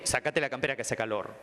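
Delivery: "Sacate" as a curt command; bossy order. Shown as a demonstration. Therapist ordering the boy, bossy. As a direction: order him to take it off. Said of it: "No le digo".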